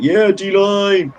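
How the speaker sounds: high, loud imitation of a Dublin player's yell; Dublin-accented yell. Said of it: "hearing a Dublin accent yell out".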